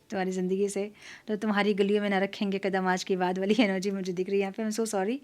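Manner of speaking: laughing through the words, amused; can't hold back a giggle while quoting. Real, not acted. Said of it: "मुझे इसलिए हँसी आ रही है". (हँसते हुए)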